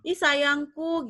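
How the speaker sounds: "Ih, sayangku" drawn out slowly; playful sweet-talk, stretched; a hammed-up darling; mock endearment. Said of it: "Maksudnya mau ngomong".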